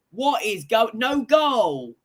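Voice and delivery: disbelieving shout. Real, not acted. Disbelief at the ruled-out goal.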